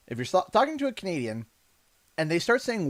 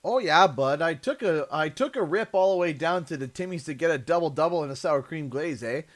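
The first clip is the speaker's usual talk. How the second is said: put-on Canadian accent. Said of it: "What's the most Canadian phrase you can say?".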